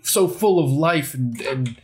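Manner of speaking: slow, solemn prayer. Acted. Healer praying to Vaxelroth for a patient, slow solemn prayer. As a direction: pray it out slowly and reverently. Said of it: "clasp my hands and be like".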